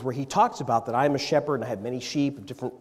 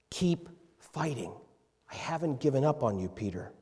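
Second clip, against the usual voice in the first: soft encouragement; 4 dB quieter than usual. Acted. Jesus voiced softly after loud plea.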